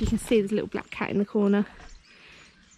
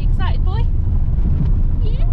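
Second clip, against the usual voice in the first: pet voice; 11 semitones higher, 5 dB louder than usual. Real, not acted. Talking to the dog.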